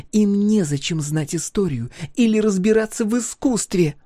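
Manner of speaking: high, loud, accusing; forty years of grievance spilling out; furious young woman. A narrator's reading. Thea lecturing Niema angrily.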